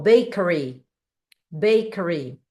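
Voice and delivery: "bakery" with a curled English R; som do R inglês. Shown as a demonstration. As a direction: curl the tongue on the R of "bakery". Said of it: "o som do R ficaria". ("bakery" com o R enrolado do inglês)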